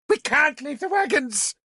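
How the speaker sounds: very high, tearful scream. A narrator's reading. Princess screams at the lord, close to tears. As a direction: plead in near tears. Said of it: "she screamed".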